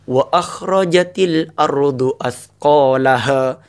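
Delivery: slow, forceful chant; frightening recitation. Shown as a demonstration. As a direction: recite it so it sounds ominous. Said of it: "Dari segi bacaannya sudah ngeri". (tilawah menyeramkan)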